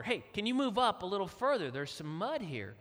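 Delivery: mildly insistent request; a little firmer. Retold or imitated. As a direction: ask again, a bit firmer. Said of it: "a little harder".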